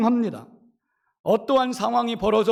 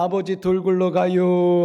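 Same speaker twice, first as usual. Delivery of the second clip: slow Chungcheong drawl; 3 semitones lower, 4 dB louder than usual. Retold or imitated. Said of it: "충청도 사람 하면 예전에는 느려 터졌다".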